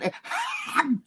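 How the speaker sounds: high, breathless re-enacted laughter; acted fit of choking laughter; imitated helpless laughing. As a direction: laugh till you can't breathe. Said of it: "You ever laugh so hard".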